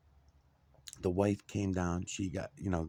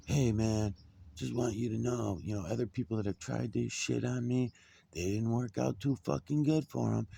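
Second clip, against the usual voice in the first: a lightly mocked menacing landlord, a bit higher; nasty threat; 5 semitones higher than usual. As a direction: mimic a threatening voicemail, pushing the pitch up. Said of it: "he started leaving all these nasty messages".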